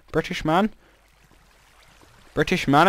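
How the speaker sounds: slipping into a light Jamaican accent; a hint of Jamaican accent by mistake. Shown as a demonstration. Aiming for British, landing in a light Jamaican accent. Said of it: "I just converted into Rasta there".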